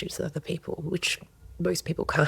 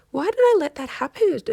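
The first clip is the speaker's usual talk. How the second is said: higher, louder frustrated question; exasperated self-reproach; 8 semitones higher, 5 dB louder than usual. Acted. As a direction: scold yourself out loud. Voicing self-reproach after anger.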